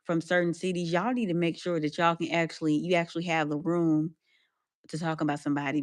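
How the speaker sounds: soft, pointed reprimand; a hushed scolding aimed at the poster; lecturing softly. Retold or imitated. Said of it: "and I'm just like".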